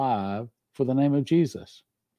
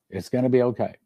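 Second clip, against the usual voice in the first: gentle reassurance; faster than usual. Real, not acted. Preacher repeats the reassurance softly.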